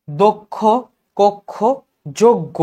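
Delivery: closed o in "দক্ষ, কক্ষ, যজ্ঞ", one word at a time; measured model reading. Shown as a demonstration. Teacher recapping for students, "দক্ষ, কক্ষ, যজ্ঞ" spaced, with rounded o. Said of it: "এটা হবে যজ্ঞ".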